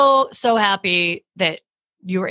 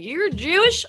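higher-pitched mock Southern accent, rising question; 7 semitones higher, slower than usual. Imagined birth mother questioning the comic's background, mock Southern accent. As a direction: put on a Southern accent, incredulous. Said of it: "I gave her a Southern accent".

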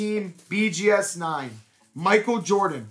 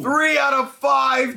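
excited shout; 5 semitones higher than usual. Real, not acted. Shouting serial number.

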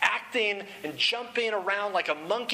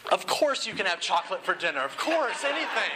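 doting dad gushing. Retold or imitated. Dad imagining his toddler asking, mock-gushing yes. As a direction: play the dad who'd give in to anything. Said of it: "I would have been like".

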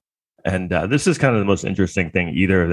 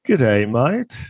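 mock Australian accent; 4 semitones higher, slower than usual. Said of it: "I guess that's Australian".

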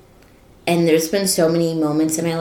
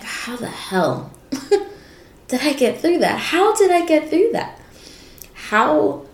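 higher, laughing disbelief at herself; incredulous disbelief; 4 semitones higher than usual. Retold or imitated. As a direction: marvel at having made it through, half laughing. Recalling disbelief at surviving.

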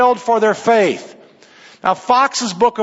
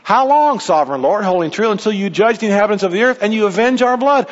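pleading cry; faster than usual. Acted. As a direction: cry out how long like the martyrs. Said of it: "they ask God to intervene".

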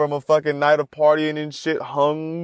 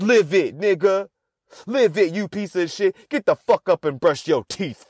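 high berating self-talk; harsh self-pep talk; 5 semitones higher than usual. Retold or imitated. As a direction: push yourself out of bed, rough. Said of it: "this is how I talk to myself".

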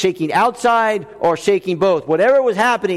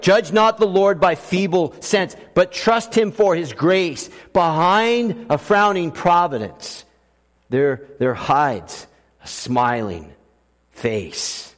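hymn recital; slower than usual. Acted. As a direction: recite the hymn line by line, softening. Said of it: "the hymn writer William Cowper".

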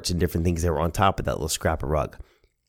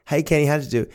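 higher-pitched grandmother voice; 8 semitones higher, faster than usual. Retold or imitated. Grandmother asking grandson about the game, higher-pitched greeting. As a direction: call out a question as Nana. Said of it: "Nana would say".

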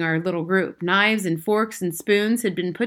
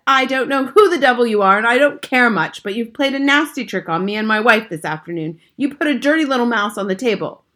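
louder, indignant father; angry tirade; 4 semitones higher, 7 dB louder than usual. A narrator's reading. Father accusing grandmother of a nasty trick, loud and angry. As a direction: lay into them with mounting indignation.

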